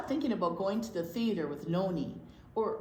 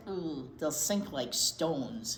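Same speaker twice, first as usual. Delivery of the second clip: lower, slow mock-dire ooh; slow ominous warning; 5 semitones lower, slower than usual. Bubby teaching Jillian, slow mock warning. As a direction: drag it out like a spooky warning.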